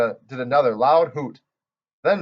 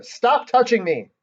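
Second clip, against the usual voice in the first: higher, slow hollered protest; slow, higher angry holler; 10 semitones higher, 4 dB louder, slower than usual. Acted. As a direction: yell it right in her face. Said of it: "she hollered".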